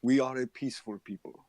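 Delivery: lightly voiced villager NPC; calm village NPC. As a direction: speak as a calm, peaceful local.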